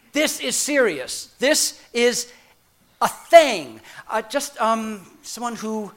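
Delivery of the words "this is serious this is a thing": forceful declaration. Pretend. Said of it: "a more powerful exclamation point that says".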